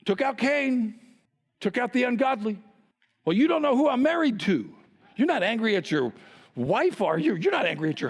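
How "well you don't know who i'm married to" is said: mock listener protesting, higher and louder; playfully whiny excuse from the pews. Imitating congregant's excuse.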